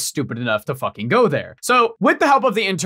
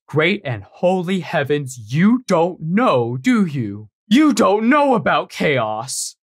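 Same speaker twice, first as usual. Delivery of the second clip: incredulous diplomat; 5 semitones higher than usual. Retold or imitated. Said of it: "he goes".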